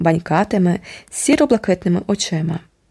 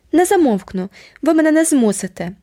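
put-on higher, defiant shouting girl; 8 semitones higher than usual. A narrator's reading. Jenny shouting back at her uncle, defiant. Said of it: "крикнула Дженні".

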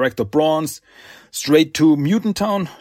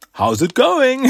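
sing-out hello, much higher; mock cheery greeting; 11 semitones higher, 4 dB louder than usual. Detective greets the sergeant, mock cheery. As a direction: play a chirpy hello, pitched way up.

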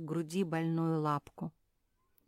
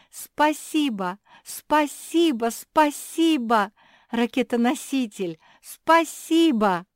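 loud, high, slow thank-yous; joyful shout; 7 semitones higher, 10 dB louder, slower than usual. A narrator's reading. Cursed girl overjoyed she can say thanks, shouting. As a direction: cry it out while jumping for joy. Mafi jumps for joy.

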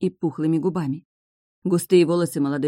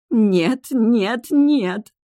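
rising, louder desperate nos; panicked cry; 6 semitones higher, 5 dB louder, much slower than usual. A narrator's reading. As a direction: scream it in panic. Witch in panic. (отчаянный крик)

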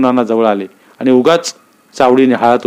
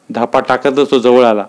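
ordinary delivery, nothing marked

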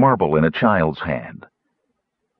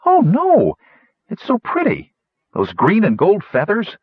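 pleading gnome; 12 semitones higher than usual. Acted.

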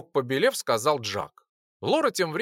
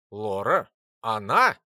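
lower, incredulous teacher voice; teacher scoffs at the pet's name; a hint of a disbelieving teacher; 6 semitones lower, 3 dB louder, slower than usual. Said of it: "Джак был в бешенстве".

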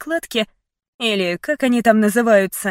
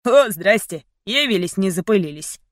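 mocking. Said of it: "насмешливо произнёс".

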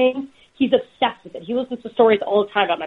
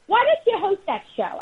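mom's voice; 11 semitones higher than usual. Retold or imitated. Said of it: "the best is when she goes".

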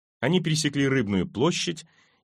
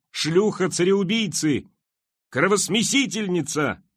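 high, drawn-out accusing wail; wailing scream; 8 semitones higher than usual. A narrator's reading. Maddened mother screams abuse at the queen, high wail. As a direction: hurl it out high and slow. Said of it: "и она завопила".

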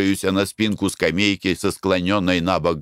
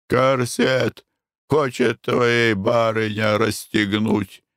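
put-on Armenian accent; 3 semitones higher, much slower than usual. Karapet translates.

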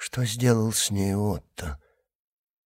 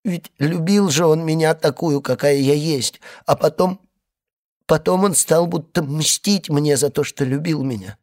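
crying; 6 semitones higher than usual. A narrator's reading. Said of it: "опять заплакала".

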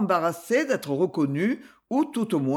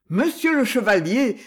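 louder startled call; surprised exclamation; 3 semitones higher, 4 dB louder than usual. Acted. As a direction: blurt it out in surprise. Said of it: "s'écria-t-il avec surprise".

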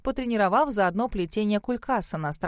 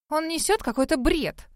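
usual speaking voice

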